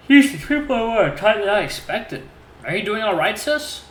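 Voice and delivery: playful nosy sister; sassy sister voice. Acted. Voices Ginny texting.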